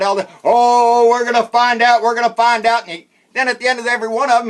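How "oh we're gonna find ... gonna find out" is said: loud, higher mock promise to get answers; mock Trey Gowdy. Mocking a congressman's hearing promises, loud hammed-up vow. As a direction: ham up an eager investigator vowing results. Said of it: "old Trey Crowdy would come out".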